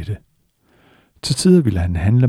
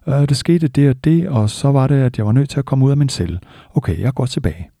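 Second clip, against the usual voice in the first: undskyldende elev; 5 semitones higher than usual. Retold or imitated. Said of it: "Og eleven ville måske svare".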